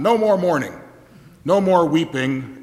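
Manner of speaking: mild proclamation. Retold or imitated. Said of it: "Ezra and Nehemiah said".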